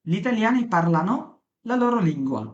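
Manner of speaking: slow, careful Italian model line; a teacher's slow demo; slow model sentence. Shown as a demonstration. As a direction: spell out each word slowly for learners. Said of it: "teacher models Italian slowly".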